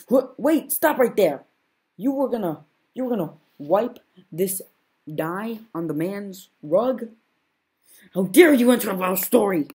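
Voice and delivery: high, loud, indignant shouting; outraged interruption. Acted. Interrupted narrator yells at the storyteller, high and loud.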